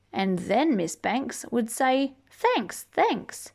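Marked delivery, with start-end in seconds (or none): 2.3-3.5 much higher, sing-song thanks; high grateful teacher. Acted. Miss Banks thanking the child for cooling school, high sing-song.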